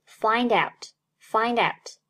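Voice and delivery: find out, the d running into out; slow findout as one word; linked find out. Shown as a demonstration. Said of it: "Find和out连读". (连读find out)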